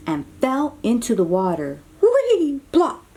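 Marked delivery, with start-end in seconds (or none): 2.0-3.0 whee plop. Acted. Sound effects of the fall.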